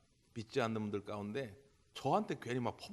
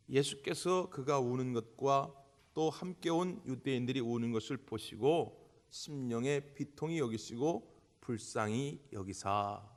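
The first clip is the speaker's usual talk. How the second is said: scripture reading; slower than usual. Acted. Reads scripture verse.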